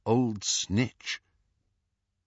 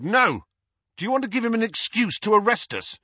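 high, quick, alarmed protest; urgent warning; 12 semitones higher than usual. Acted. Harry stops Ron raising his wand, urgent warning. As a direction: cut him off urgently.

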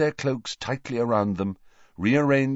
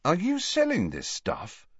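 Harry's voice; 10 semitones higher, 3 dB quieter than usual. Acted. Harry questions Mundungus.

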